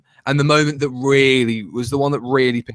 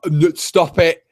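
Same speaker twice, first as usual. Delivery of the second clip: higher, insistent mock plea; exasperated pleading; 3 semitones higher than usual. Viewer begging the writer to stop, pleading. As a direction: beg in a rising, urgent run.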